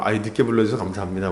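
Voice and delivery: bow and scrape in jest, quickly; playful fawning gratitude; mock grateful thanks. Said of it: "전쟁에 빼줘서 고맙다고".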